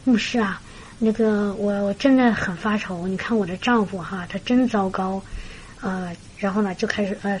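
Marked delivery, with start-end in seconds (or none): 0.0-5.2 mildly downcast, slightly softer retold grumble; lightly imitated worried wife; mock woeful complaint. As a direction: fret wearily to the pastor, understated. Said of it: "一脸愁苦的样子啊".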